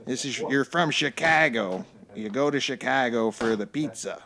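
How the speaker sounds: a light attempt at a Chicago accent; badly faked Chicago local. Shown as a demonstration. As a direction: try on a rough Chicago accent. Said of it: "My Chicago accent was bad".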